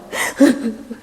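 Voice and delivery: voiceless choppy pretend sobs; half-laughed fake weeping; mock sobbing. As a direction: imitate a husband crying. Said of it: "남편이 우는 거예요".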